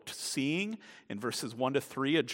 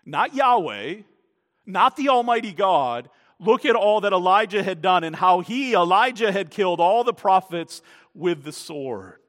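louder, excited retelling of Elijah's deeds; Ahab boasting to his wife; 4 semitones higher, 9 dB louder than usual. Retold or imitated. Ahab tells Jezebel all Elijah did, loud and worked up. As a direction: burst in with the news. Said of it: "he tells his wife what a day he's had".

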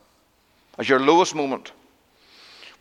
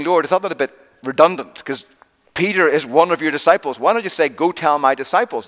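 higher, quicker-sounding objection, lightly acted; mildly querying angel; 5 semitones higher, 3 dB louder than usual. Imagined angel querying the Lord's wording, lightly puzzled. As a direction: question it with a raised pitch.

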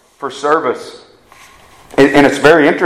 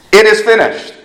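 FINISHED proclaimed louder and higher; emphatic quote; 6 semitones higher, 6 dB louder than usual. Retold or imitated. Preacher quotes Jesus's words on the cross, emphatic. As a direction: declare "It is finished" firmly, raised in pitch and volume.

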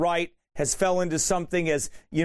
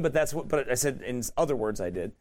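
ordinary delivery

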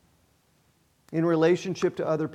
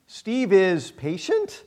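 slow question lifting on PATIENT; slower than usual. Shown as a demonstration. Preacher testing his name in the verse, questioning. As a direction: draw it out, rising on "patient" as a question. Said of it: "put a question mark at the end".

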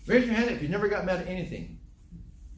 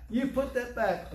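firm repeat; 7 semitones higher than usual. Retold or imitated. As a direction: repeat the order, steadier. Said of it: "some lady came over there".

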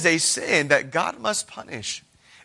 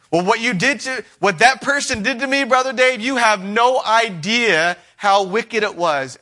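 high, aggrieved mock complaint; whiny offended churchgoer; 5 semitones higher, 3 dB louder than usual. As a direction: play the wounded objector, slowing at the end. Voicing a resentful congregant.

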